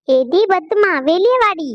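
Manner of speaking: high-pitched summons to come outside; calling out. Acted. Visitor summoning Padma out to fight, calling out. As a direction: call her out for a quarrel. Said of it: "எதுக்கு நீங்க வந்து கத்திக்கிட்டு இருக்கீங்க".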